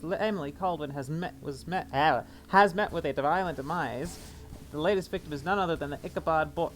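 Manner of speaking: formal newspaper reading voice; news read. Acted. Reads in-game newspaper aloud.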